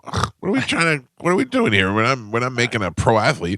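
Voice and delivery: high disbelieving questions; exasperated. Retold or imitated. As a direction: groan it out, fed up. Complaining to wife.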